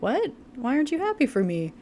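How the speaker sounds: high, whiny and wounded; whiny jealous friend. Retold or imitated. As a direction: play it hurt and petty.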